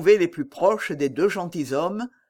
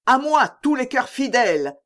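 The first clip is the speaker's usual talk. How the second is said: high raised call to arms; rallying cry; 7 semitones higher, 3 dB louder than usual. A narrator's reading. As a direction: call the loyal to your side. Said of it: "cria De Winter". (appel lancé d'une voix aiguë)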